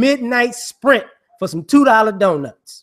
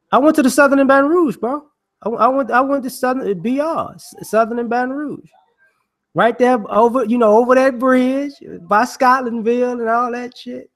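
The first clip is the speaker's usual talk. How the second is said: excited; 5 semitones higher than usual. Real, not acted. Excited about his old college.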